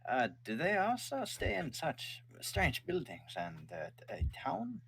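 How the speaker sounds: high, slow, puzzled father; drawn-out wary dad question; father's voice. Acted. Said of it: "He goes".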